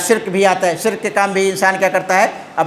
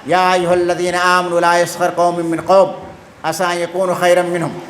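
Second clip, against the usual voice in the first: Quran recitation. Acted. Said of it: "اللہ سبحانہ وتعالیٰ نے فرمایا".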